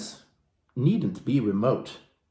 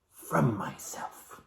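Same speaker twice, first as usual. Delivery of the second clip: slow savoring; 11 dB quieter, much slower than usual. Acted. A self-indulgent boast.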